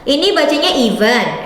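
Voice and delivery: event said as ee-vent; right pronunciation. Shown as a demonstration. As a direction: event with a long ee at the start. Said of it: "buat disclaimer". (event diucapkan i-vent)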